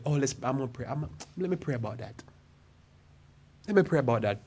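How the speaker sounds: mock hesitant. Reluctant churchgoer stalls when asked to do good, mock hesitant. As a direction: imitate someone backing out, trailing into a soft mumble. Mimicking people stalling with prayer excuse.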